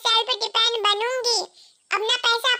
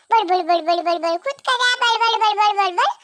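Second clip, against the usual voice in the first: a taunting बड़ बड़ बड़ like his nagging; mocking babble. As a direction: parrot his scolding as empty noise. Wife mocks husband's scolding. (पति की डांट की नकल में चिढ़ाती बड़ बड़ बड़)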